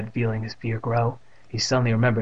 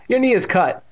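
surprised; 11 semitones higher, 6 dB louder than usual. A narrator's reading. Evan noticing the wound.

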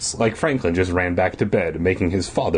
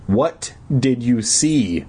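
slow, deliberate questioning; impatient; 3 semitones higher, slower than usual. Acted. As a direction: spell it out impatiently, word by word. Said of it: "I asked impatiently".

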